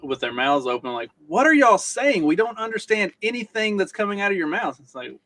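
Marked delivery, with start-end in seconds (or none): 1.3-4.8 higher, baffled mock protest; playing the dumbfounded onlookers, pitched up; imitated bewilderment. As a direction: quote them as utterly lost listeners. Bewildered wife and friend, quoted.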